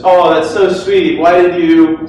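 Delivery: mock sweet girlfriend voice; imitating girlfriend. Speaker imitates girlfriend receiving flowers, mock sweet. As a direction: gush over the flowers like her. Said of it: "sorry, that's not how she really sounds".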